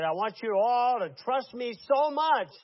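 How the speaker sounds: forceful cult-leader command; preacher's demand. Retold or imitated. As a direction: voice the cult leader urging total trust. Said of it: "and he said".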